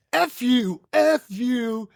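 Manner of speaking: hammed-up indignant outburst; retold angry retort. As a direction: throw it back like a heated insult. Retold shouting match.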